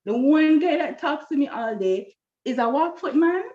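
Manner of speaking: retold exasperation, pitch leaping on the complaints; annoyed with God. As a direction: complain to God in mock outrage. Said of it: "I was annoyed with God".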